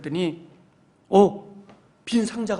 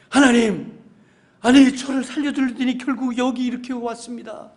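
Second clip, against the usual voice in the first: indignant complaint; 6 semitones higher, 5 dB louder than usual. Pretend. Drowned man complaining to God.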